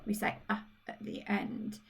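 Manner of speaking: whispered Brummie aside; softly confiding the Brummie ending. Real, not acted. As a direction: drop to a whisper about the Brummie uh. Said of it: "when we speak with a Brummie accent".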